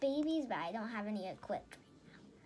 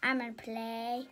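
whisper. Real, not acted. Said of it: "whispered to self while gaming".

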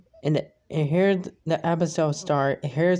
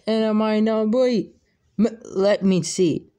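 dazed squeak; 6 semitones higher, 3 dB louder than usual. Acted. Hit in face, dazed reply.

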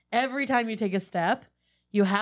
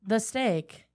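slam poet cadence; slower than usual. Shown as a demonstration. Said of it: "say in slam poet cadence".

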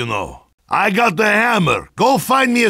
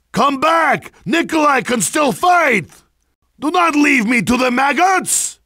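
put-on higher-pitched plea in a Russian accent; desperate calling out; 4 semitones higher than usual. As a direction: call them back before they leave you. Downed soldier calls comrades back.

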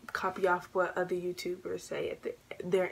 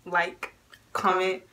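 youtuber outro pitch; 6 semitones higher than usual. Acted. Youtuber outro call to action.

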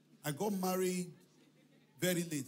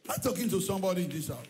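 preaching call; 4 dB louder, faster than usual. Real, not acted.

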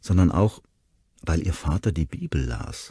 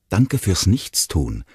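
hissed; 3 semitones higher, slower than usual. Acted. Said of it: "fauchte sie ihn an".

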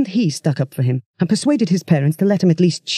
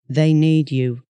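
wooden; slower than usual. Acted. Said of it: "Dave's voice was wooden, expressionless".

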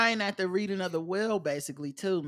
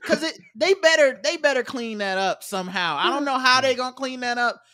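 loud, heated rant with laughs; 5 semitones higher, 4 dB louder than usual. Real, not acted. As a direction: vent loudly, half laughing. Angry rant about the movie.

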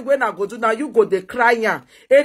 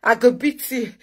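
mocking the rival. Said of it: "they tell you".

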